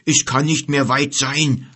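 tief brummender Bär. A narrator's reading. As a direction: wie ein alter Bär vor sich hin brummen. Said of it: "brummte Kelim". (brummiger Bär, ruhig)

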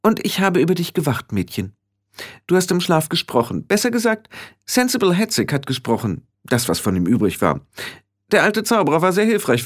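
hoch einsetzende, bestimmte Hexenstimme; resolute Hexe. Acted. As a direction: jeden Satz hoch beginnen, dann fallen lassen. (energische alte Hexe)

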